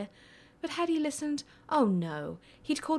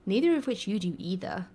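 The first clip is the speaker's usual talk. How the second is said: arguing, a bit louder; 4 dB louder than usual. Acted. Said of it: "Arthur argued".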